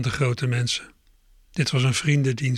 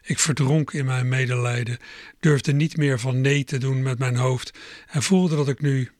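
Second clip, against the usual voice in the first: ordinary delivery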